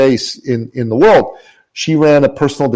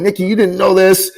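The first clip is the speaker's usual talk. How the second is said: retold sobbing words; 6 semitones higher than usual. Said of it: "in between sobs".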